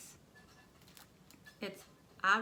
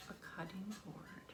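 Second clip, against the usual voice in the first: whispering; 10 dB quieter than usual. Real, not acted. Unboxing, whispered reveal.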